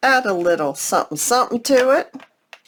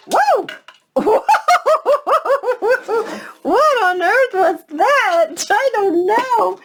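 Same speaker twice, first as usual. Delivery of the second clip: high startled cry with laughter; jump, then laugh at the shock; startled whoa; 13 semitones higher, 3 dB louder, slower than usual. Real, not acted. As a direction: caught off guard as her card goes flying. Something flies off the table.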